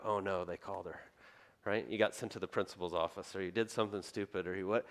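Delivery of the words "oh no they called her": much lower and softer sinking dread; a kid realizing he's caught. Retold or imitated. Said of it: "you'd go".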